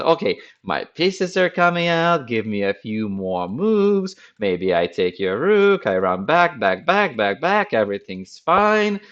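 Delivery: mock confident opponent. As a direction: pretend everything is fine while retreating. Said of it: "He says".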